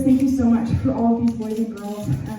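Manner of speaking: put-on earnest closing prayer to the kids. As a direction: pray sincerely over the group.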